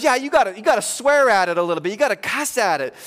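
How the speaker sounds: put-on a boy eagerly explaining the trick; eager kid.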